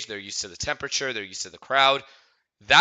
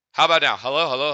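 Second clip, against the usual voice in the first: louder mic test voice; 2 semitones higher, 5 dB louder, faster than usual. Shown as a demonstration. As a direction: push the volume up for the mic check. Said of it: "This is my regular speaking voice".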